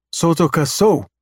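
alien voice. Acted. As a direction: announce the alien word. Alien names the planet.

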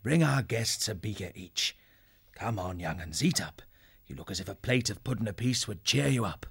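gentle, lightly voiced kindly elder; easy, understated reassurance; speaking softly. A narrator's reading. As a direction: coax nervous guests to eat, softly. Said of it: "speaking softly to allay their fears".

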